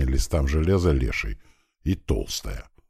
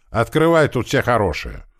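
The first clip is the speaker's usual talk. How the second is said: raised, higher coaxing shout; calling out; 7 semitones higher, 4 dB louder than usual. A narrator's reading. Gunner coaxing the man inside to open, calling out. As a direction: call through the door to be let in. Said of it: "крикнул наш пулемётчик".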